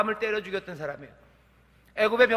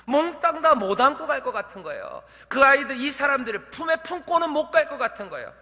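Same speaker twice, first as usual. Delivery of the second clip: normal talking voice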